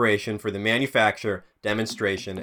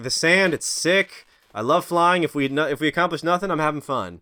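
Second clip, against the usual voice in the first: put-on higher, gushing kid-like joy; excited; 5 semitones higher than usual. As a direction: gush about flying happily. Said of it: "He's like".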